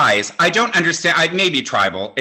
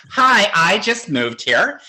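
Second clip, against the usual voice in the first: higher, slow, coy innocent hello; mock girlish sweetness; coy schoolgirl; 6 semitones higher, slower than usual. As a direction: play the bashful new kid in town. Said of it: "sprouted, like, a ponytail and saddle shoes".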